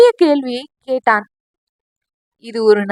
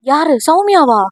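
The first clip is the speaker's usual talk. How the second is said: anxious; 4 semitones higher, 3 dB louder than usual. Acted. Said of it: "என்று பதட்டமாக கேட்டான்".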